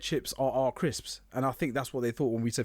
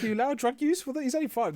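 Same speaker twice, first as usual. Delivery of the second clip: mock shock; 12 semitones higher than usual. Joking shocked reply.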